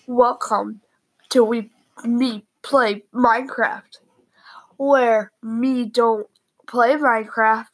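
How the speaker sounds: breathy secret whisper. Real, not acted. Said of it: "I don't know why I'm whispering".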